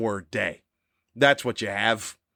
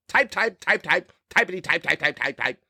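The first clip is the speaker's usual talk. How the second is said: mock typing noise; 5 semitones higher than usual. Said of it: "That's the whole thing about social media".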